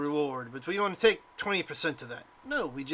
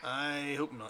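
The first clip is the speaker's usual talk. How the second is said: very quiet mutter under the breath; 2 semitones lower, 10 dB quieter than usual. Voicing a lady as the players leave: muttered under her breath. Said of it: "she says the last part of that under her breath".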